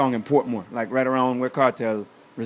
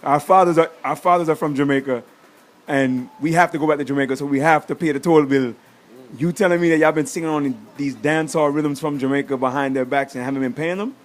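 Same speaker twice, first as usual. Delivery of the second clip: louder, pressing protest; heated retort; 4 dB louder than usual. Retold or imitated. Arguing with the Puerto Rican kid, loud and pressing.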